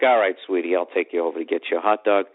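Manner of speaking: low, indulgent reply to a sweetheart; indulgent giving-in. Retold or imitated. Boyfriend giving in to adorable girlfriend, indulgent.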